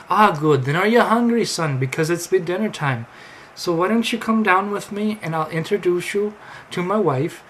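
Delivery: high, lilting mock Amish invitation; terrible Amish accent. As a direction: invite him along in a fake Amish voice. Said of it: "my terrible Amish accent".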